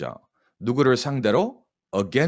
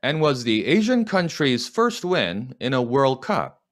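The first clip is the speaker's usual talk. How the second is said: slow dictation; 3 semitones higher, much slower than usual. Shown as a demonstration. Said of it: "시작".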